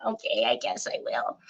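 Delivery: a soft resigned aside to herself; muttered aside. Real, not acted. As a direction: say it under your breath.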